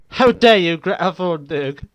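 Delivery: high, loud mock Greta outburst; mock outrage. Imitating Greta Thunberg's speech, mock outraged shout. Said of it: "voicing something random".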